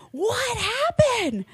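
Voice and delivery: high, slow whispered mock alarm; imitating brother. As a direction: play the panicked brother lightly. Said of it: "This fool comes running in and he goes".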